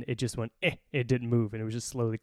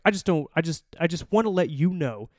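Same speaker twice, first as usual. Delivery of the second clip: higher, stumbling imitation of an annoyed man; flustered, mad; 5 semitones higher, 3 dB louder than usual. Mad dad insulting the Navy, flustered. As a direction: stammer it out, mock indignant. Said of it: "he's flustered, he's mad".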